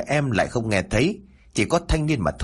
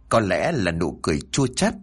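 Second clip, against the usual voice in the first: ordinary delivery, nothing marked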